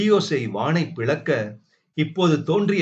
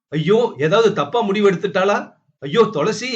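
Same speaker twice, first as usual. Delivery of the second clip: higher, hurried wail of worry; panicked dread; 6 semitones higher, 4 dB louder, faster than usual. A narrator's reading. Man fears for missing Tulasi, panicked. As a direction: cry out fearing the worst. Fears she has harmed herself.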